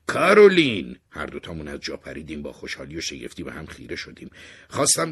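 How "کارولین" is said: high, very loud cry of a name; sudden full-voiced yell, pitched high; startled shout. A narrator's reading. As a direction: call out as if it bursts from your mouth. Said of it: "دهنم داد زد".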